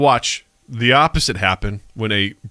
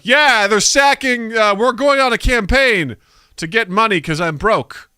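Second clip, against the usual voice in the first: casual English actor; 8 semitones higher than usual. Retold or imitated. Mocking English actors in The Last Duel, higher and casual. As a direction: toss it off like a bored knight. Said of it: "but then they're like".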